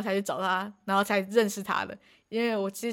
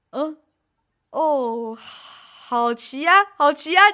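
breaking into real laughter, louder at the end; laughing reply; 5 semitones higher, 7 dB louder, much slower than usual. Real, not acted. Dad's out-of-nowhere question about riding, answered laughing.

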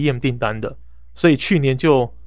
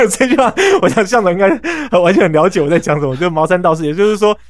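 louder and higher, getting worked up; animated; 5 semitones higher, 6 dB louder than usual. Real, not acted. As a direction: press the point with energy. Rises on the phrase 毛三到四.

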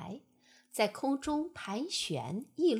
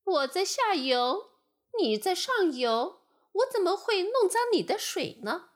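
high, louder lamb voice, hurt; wronged lamb; 7 semitones higher, 5 dB louder than usual. Acted. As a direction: plead like a wronged little lamb. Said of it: "小羊委屈地说". (委屈的小羊)

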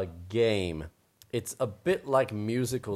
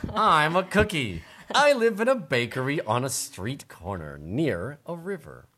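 a hint of a higher girl voice; lightly voiced girl cookie, a bit higher; 6 semitones higher, 4 dB louder than usual. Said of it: "That is my girl voice".

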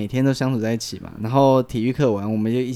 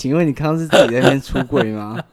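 voice cracking; 2 semitones higher, 4 dB louder than usual. Real, not acted. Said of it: "我破音，你有听到我破音吗？".

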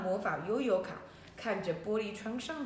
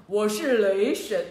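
loud, slow, grand declaration; booming thunder god; 8 dB louder than usual. Acted. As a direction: announce yourself like thunder. Thunder god announces himself. (雷神缓慢洪亮地自我介绍)

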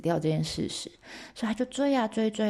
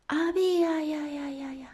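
high, long drawn-out call with echo; far-off husband calling his wife; echoing cave call; 9 semitones higher than usual. Acted. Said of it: "所以他就大喊".

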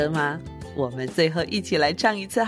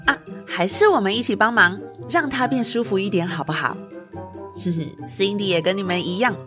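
put-on bright storyteller to kids; reading to a toddler. A narrator's reading. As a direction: coax the little ones along. Teacher addresses children.

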